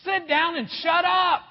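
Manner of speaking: loud, high-pitched comic order; mock shouted command. Preacher giving his own translation of scripture, mock shouted command. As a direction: bellow it as a blunt punchline. Blunt joke translation of "Be still.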